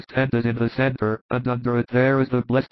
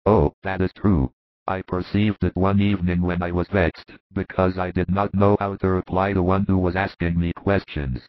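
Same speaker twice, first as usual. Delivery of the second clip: earnest disciple; 5 semitones lower than usual. Acted. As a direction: lower voice, a humble disciple telling his story. A disciple recounts his experience.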